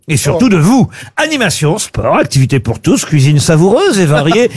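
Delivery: brisk radio sponsor read; upbeat radio ad read over music. Acted. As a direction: sell the holiday club like a live ad. Host reads a sponsor ad.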